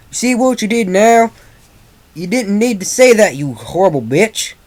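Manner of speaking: high, loud furious yelling; acted enraged shout, pitched high; angry scream. A narrator's reading. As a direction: scream the accusation in fury. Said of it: "Applejack screamed".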